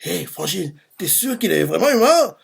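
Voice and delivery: lightly voiced stunned companion; shocked sidekick. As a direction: marvel at him in disbelief. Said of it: "Ten choqué aussi, il fait".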